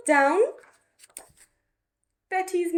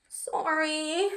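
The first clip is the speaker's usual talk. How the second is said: softer, sighing apology; sighed sorry; 3 semitones higher, 6 dB quieter than usual. Acted. Betty apologising to Mum, soft sigh. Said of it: "sighed Betty".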